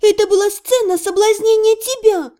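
с раздражением; exasperated. A narrator's reading. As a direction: spell it out, fed up. Exasperated heroine explains.

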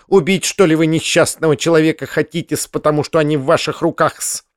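plain reading voice

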